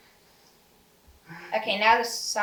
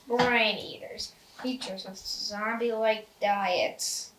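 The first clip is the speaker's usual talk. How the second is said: slow announcer read; 2 semitones lower, slower than usual. Retold or imitated. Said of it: "It's like".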